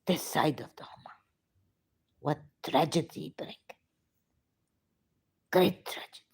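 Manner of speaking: choked, breaking into near-whisper; overcome with emotion. Real, not acted. Shia speaker lamenting a tragedy, choked-up voice. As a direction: struggle to get the words out through grief. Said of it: "I'm getting emotional, too emotional".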